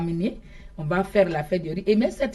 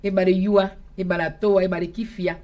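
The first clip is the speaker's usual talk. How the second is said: a festive public invitation, a bit raised; formal announcement in Bété. Acted. Guest announces the rice festival to the Zedi people. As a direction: proclaim the invitation to the villagers.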